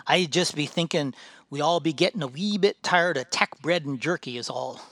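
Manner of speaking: a dwarf defending his appetite; gruff dwarf, grumbling. Acted. Dwarf explains to ranger.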